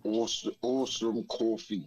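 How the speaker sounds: tentative try at New York vowels; attempted New York accent. Shown as a demonstration. UK guest trying the host's New York accent. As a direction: copy a New York accent, not quite getting it. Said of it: "it doesn't sound like you or A J".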